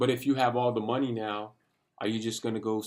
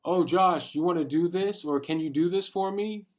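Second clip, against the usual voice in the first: a light, higher-pitched coaxing voice; imitating family pressuring him to go along; coaxing friends; 5 semitones higher, 3 dB louder than usual. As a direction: wheedle him to join in, lightly. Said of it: "Even my friends, my family, like".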